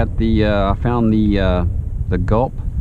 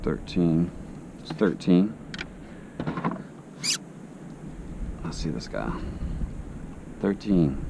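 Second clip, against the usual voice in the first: fishing whisper; 6 semitones lower, 10 dB quieter than usual. Real, not acted. Quiet while spotting fish.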